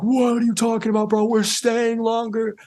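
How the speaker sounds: high, slow, put-on voice of disbelief; slow mocking protest from a rapper who won't leave; incredulous rapper. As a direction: play the rapper scoffing at the idea of leaving. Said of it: "they're like".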